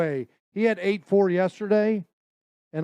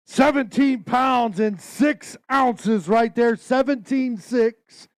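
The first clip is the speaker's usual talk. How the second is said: excited weight call; 4 semitones higher, 4 dB louder, slower than usual. Acted. Emcee calls out big weight.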